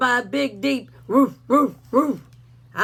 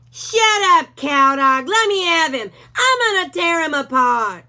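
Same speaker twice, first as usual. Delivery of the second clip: higher, louder, threatening bark; a bully dog snarling at Hank; menacing Doberman; 7 semitones higher, 7 dB louder than usual. A narrator's reading. Rufus the Doberman voice.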